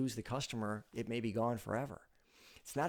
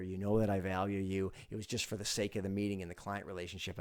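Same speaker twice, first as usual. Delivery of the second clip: low, calm reassurance; smooth things over with a teammate, lower-pitched; reassuring apology; 5 semitones lower than usual. Shown as a demonstration. Demonstrated apology to teammate afterwards.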